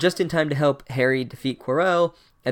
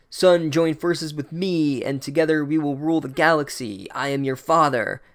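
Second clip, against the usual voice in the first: mock Vader; 3 semitones higher than usual. Voldemort parodies Darth Vader.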